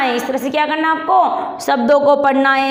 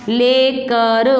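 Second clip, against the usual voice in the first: लेकर drawn out very slowly; slow model word; much slower than usual. Shown as a demonstration. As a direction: stretch लेकर so children can follow. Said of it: "मैं साथ साथ बोलो बेटा". (लेकर बहुत धीरे)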